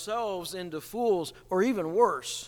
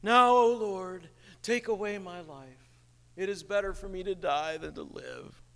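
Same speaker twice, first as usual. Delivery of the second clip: pouting prophet. Retold or imitated. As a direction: sulk it out like a sore loser. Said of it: "becomes a pouting prophet".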